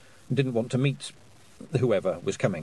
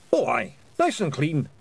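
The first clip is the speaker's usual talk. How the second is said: Scottish Feegle voice; 4 semitones higher than usual. Acted. Hamish's Scottish voice.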